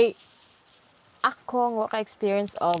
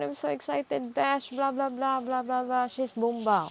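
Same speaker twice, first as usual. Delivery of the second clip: higher-pitched gushing without a breather; excited, breathless chatter; 4 semitones higher than usual. Acted. Student gushing to best friend about crush's chat, breathless excitement. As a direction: rattle on excitedly as if never pausing for air. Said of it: "kanang di naman mo ginhawa".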